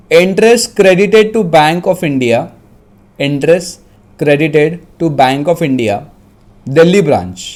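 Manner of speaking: deliberate dictation broken into short phrases; dictating. Real, not acted. Teacher repeating each phrase for students, measured dictation. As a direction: pause so they can write. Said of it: "मैं dictate कर रहा हूँ".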